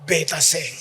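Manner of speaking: fervent protest; defiant vow. Retold or imitated. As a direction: proclaim it boldly. Peter's defiant quote in sermon.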